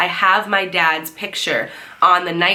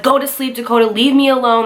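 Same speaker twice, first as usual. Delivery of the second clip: annoyed brush-off; 3 semitones higher, 4 dB louder than usual. Retold or imitated. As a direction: imitate a brother fed up at being woken. Retold annoyed sleepy brother snapping back.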